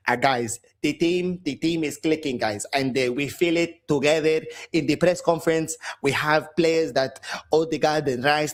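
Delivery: put-on lightly accented Spanish manager parody; mock the manager's press conference, repeating guys; mock Arteta press talk. Fan mimicking Arteta's press conference, lightly accented mock. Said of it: "Shut the fuck up".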